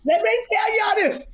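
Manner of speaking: high laughing mock gossip; teasing impression of a blabbing cohost; mocking gossiping friend. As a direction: spill the tea, giddy. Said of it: "She be like".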